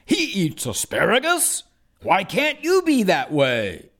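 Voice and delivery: a touch of nagging parents; parents' voice. Retold or imitated. Parents nagging their child at dinner, lightly mimicked. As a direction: mimic mom and dad lightly. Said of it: "my parents both will say".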